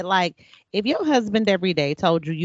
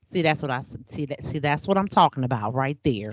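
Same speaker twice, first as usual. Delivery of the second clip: low, soft told-you-so nag; lightly voiced smug wife; mock nagging wife; 5 semitones lower, 4 dB quieter than usual. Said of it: "I'm not gonna say".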